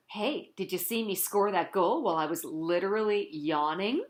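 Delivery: whispered boast; bragging aside. Retold or imitated. Cheese bragging to anyone who listens, whispered. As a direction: brag to a friend under your breath. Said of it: "I'd brag nonstop to anybody".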